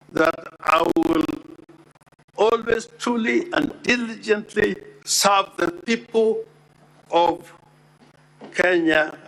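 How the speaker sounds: deliberate, pointed repetition of "serve the people"; emphatic restatement. Shown as a demonstration. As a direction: lean on each word of "always truly and diligently serve the people of Kenya". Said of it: "to emphasize".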